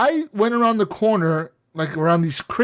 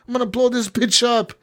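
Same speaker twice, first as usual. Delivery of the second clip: higher, put-on voice for the bomber in the video; mock bomber threat; 6 semitones higher than usual. Retelling the Patriots trailer, he voices the bomber in a higher, put-on voice. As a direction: play the unhinged guy with a bomb.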